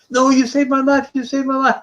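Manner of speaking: high, emphatic voice of the fan; retold fan insisting to the composer, high and earnest; insistent grateful woman. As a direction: push back on his modesty, high and fervent. Woman insists after his modesty.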